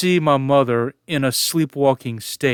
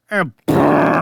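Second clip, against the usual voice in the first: imitated drill buzz; 3 dB louder than usual. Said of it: "and it's going".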